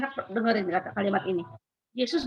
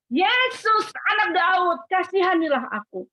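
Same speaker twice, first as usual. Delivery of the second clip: crying out; 6 semitones higher than usual. Acted. Blind beggar calls out to Jesus, pleading cry. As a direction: call out to Jesus, begging. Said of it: "Dia berteriak".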